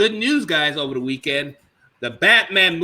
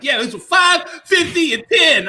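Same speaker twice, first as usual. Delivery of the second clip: high excited shout; 11 semitones higher, 4 dB louder, slower than usual. Retold or imitated. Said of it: "She's like".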